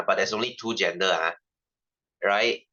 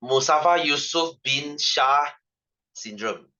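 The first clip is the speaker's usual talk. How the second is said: slow mock name; much slower than usual. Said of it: "You should be glad that he is not".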